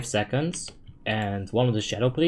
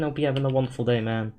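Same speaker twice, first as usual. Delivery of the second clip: slightly slurred speech; slurring words; 2 semitones higher, faster than usual. Real, not acted. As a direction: let the words blur together. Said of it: "I'm slurring my words a bit".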